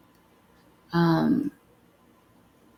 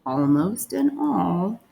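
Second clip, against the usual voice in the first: one word at a time, long pauses; word-by-word dictation; slower than usual. Shown as a demonstration. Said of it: "The first one we're gonna write is".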